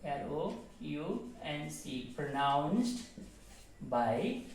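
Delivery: teacher dictating each word with long pauses; dictating word by word to students; word-by-word dictation. Shown as a demonstration. Teacher dictating slowly to the class. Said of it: "How this word pronounced by".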